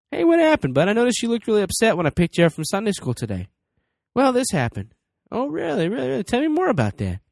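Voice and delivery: put-on cheerful parent asking a child; upbeat curious parent. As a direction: coax your kid to open up. Parent role-play with son.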